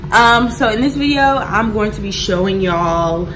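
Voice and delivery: breathless, gulping air between words; talking while winded, short of breath. Real, not acted. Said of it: "I'm out of breath".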